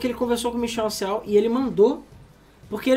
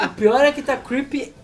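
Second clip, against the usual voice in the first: laughing through the words at the creepy floating heads; laughing loudly; 3 semitones higher, 7 dB louder than usual. Real, not acted. Laughing friend reacts to floating heads on screen, cracking up. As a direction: crack up while calling it creepy.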